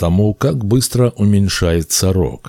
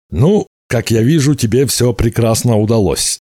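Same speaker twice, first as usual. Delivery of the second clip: higher-pitched, lively storybook wizard; wizard's cheery inquiry; 5 semitones higher, 3 dB louder than usual. A narrator's reading. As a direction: greet him with lively, raised-pitch interest. Wizard greets hero in story. (оживлённый вопрос чародея)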